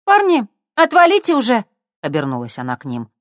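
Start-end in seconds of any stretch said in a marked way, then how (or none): 0.0-1.7 put-on much higher and louder girl's voice; telling them off. A narrator's reading. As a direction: shove them away with your voice. Girl tells guys off. (резко, громко и высоко)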